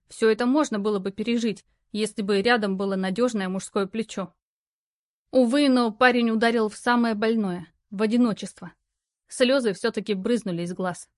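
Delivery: ordinary delivery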